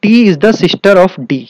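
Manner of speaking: teacher slowly reading the clue aloud; slow emphatic reading. Shown as a demonstration. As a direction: dictate the clue slowly to the students. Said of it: "आगे देखिए".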